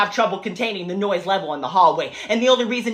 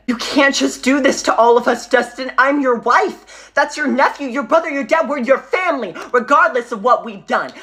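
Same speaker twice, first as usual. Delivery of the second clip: pleading wife; 3 semitones higher than usual. Acted. Wife begs husband Dustin not to disown them, pleading. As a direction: beg him not to cut the family off.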